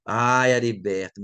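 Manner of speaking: rising anger. Retold or imitated. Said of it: "meu sangue ferveu".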